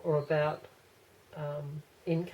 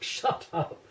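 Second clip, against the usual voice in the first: whispered shut up. Retold or imitated. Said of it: "like, to shut up".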